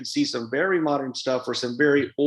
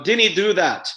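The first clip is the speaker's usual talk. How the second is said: Scottish dinny; 4 semitones higher, 4 dB louder than usual. Shown as a demonstration. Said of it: "a lot of Scotland will say dinny".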